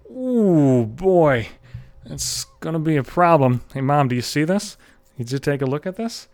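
put-on little girl voice. Six-year-old girl voiced.

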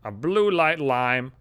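slow, lightly voiced old woman asking a favour; a hint of a weathered old woman, slow; mimicking the old woman. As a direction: drag out the request slowly. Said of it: "And she's like".

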